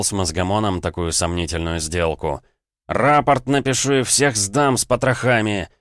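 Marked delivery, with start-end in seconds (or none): 2.9-5.7 loud, higher angry bark; shouted angry threat. A narrator's reading. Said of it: "рявкнул я".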